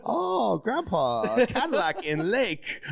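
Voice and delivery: high wail sliding down, drawn out; hammed-up tearful moan; mock weepy. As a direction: pretend to sob over a movie. Mock weeping at movie scene.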